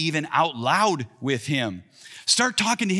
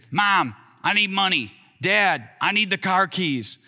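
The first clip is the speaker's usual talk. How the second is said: put-on bum teenager; 4 semitones higher than usual. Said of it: "like a bum teenager".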